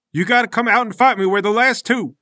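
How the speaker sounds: high, hurried protest; frustrated demand. Acted. Bald fighter to Larry who refuses to fight, frustrated. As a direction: insist urgently to a stubborn opponent. Fighter arguing with hiding opponent.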